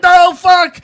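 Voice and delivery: high, loud cry of protest; mock pained yell. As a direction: imitate a kid getting jumped. Frankie yelling as he is jumped.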